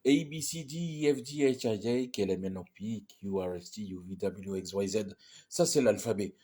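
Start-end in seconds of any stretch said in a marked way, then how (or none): 0.1-5.2 English letter names in a run; English alphabet recited. Shown as a demonstration. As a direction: rattle off the letters in English, pitch sliding down. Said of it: "comment ça se fait".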